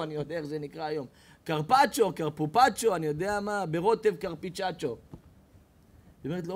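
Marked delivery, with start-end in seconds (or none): 1.4-5.0 comic mispronouncing diner. Acted. Diner mangling carpaccio.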